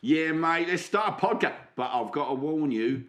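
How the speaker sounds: cheeky put-on British accent; Alfie, British accent. Alfie greets Romando, put-on British accent. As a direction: play a matey Brit, drawing out names. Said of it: "put me British accent on".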